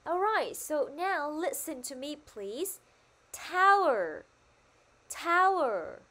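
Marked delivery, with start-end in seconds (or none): 3.3-6.0 "Tower" high and loud at the start, then falling; stress on first syllable. Shown as a demonstration. Teacher asking pupils to listen to her, emphatic "Tower". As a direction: punch the start of each "Tower". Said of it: "cô nhấn mạnh vào âm tiết là tower".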